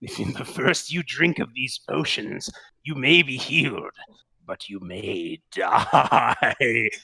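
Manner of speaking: put-on slow, loud showman warning to the children; spooky showman voice; theatrical apothecary. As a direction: ham up the ominous ending, dragging the last word.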